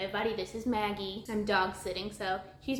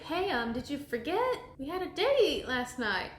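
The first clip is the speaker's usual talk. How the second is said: mildly miffed, slightly raised voice; higher, hesitant mock grievance; a little peeved; 4 semitones higher than usual. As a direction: play a stood-up suitor, gently put out. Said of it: "he's a little peeved".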